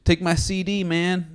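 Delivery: a hint of a New York hustler's call; street CD hustler. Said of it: "bunch of black dudes going".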